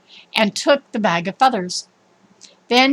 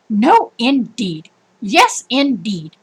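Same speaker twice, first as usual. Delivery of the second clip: mock shouting match; slower than usual. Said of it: "They were shouting at each other".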